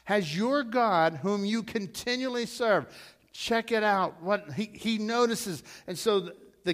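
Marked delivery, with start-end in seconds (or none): 0.1-2.9 king's cry again. Retold or imitated.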